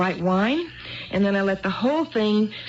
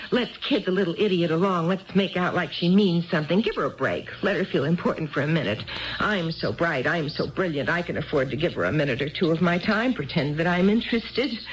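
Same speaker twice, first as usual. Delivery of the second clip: mock husband's thoughts; 3 semitones lower than usual. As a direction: sneer his imagined thoughts back at him. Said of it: "You thought".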